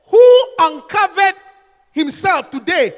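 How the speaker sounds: slow, biting sarcasm on uncovered; mock-admiring, slow sneer; sarcastic drawn out. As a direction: drag the words out mockingly.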